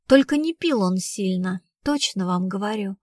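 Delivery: steady, matter-of-fact assurance; completely sober. Acted. Girl vouching for her dead boyfriend, sober voice. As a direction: state it soberly and firmly. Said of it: "совершенно трезвым голосом".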